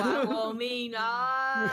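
slow, loud, drawn-out ghost moan; ghostly wail. Pretend. Players joke teammate looks like ghost.

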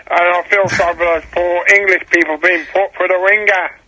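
put-on hesitant go at an American accent; a caller's loose West Coast American. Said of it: "In an American accent".

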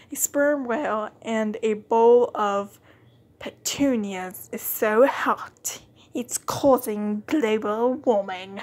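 slow, drawn-out silly voice; silly put-on voice. Reading a game card in a goofy voice. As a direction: stretch it out in a goofy voice. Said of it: "I just wanted to do that voice".

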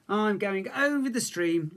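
little cub. A narrator's reading. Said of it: "Little Bear said".

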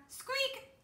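very high, loud little squeak; mouse squeak. A narrator's reading. Peanut the mouse greets them from above, high squeak.

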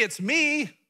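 a high, loud, wrong way to reveal yourself; loud mock announcement. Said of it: "He didn't say".

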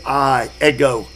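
"I" and "ego" pushed out emphatically; stress on I. Shown as a demonstration. Teacher to class, stressing the emphatic I. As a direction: lean hard on "I, ego".

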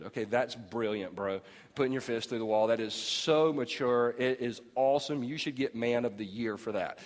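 low, dry mock approval; sarcastic praise. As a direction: pretend to admire him. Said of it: "sarcastic to husband".

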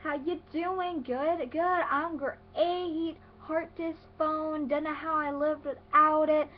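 high, slow, drawn-out mock texting voice; texting little cousin. Mimicking cousin texting from mom's phone, mocking singsong. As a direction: read it like a gushing, badly written text. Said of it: "and she'll be like".

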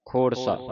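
ਖੋੜਸਾ joined with no break before the final saa; read as one word. Shown as a demonstration. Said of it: "ਖੋੜਸਾ ਇਕੱਠਾ ਪੜ੍ਹਨਾ".

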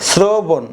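"শ্রবণ" as srobon, s at the start; s pronunciation. Shown as a demonstration. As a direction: say "শ্রবণ" with sr and a closed n. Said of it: "তাহলে উচ্চারণ হলো". (দন্ত্য স দিয়ে "শ্রবণ")

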